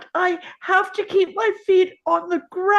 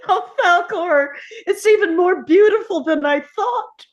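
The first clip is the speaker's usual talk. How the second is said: exhilarated; 4 dB louder than usual. Acted. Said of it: "exhilarated ... laughing with joy".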